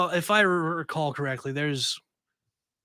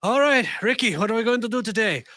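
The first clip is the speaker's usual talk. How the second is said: higher, hammed-up English accent; bad English accent; 6 semitones higher, 3 dB louder than usual. Cohost voicing a drug lord boss in a bad English accent. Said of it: "they have a very bad, um, English accent".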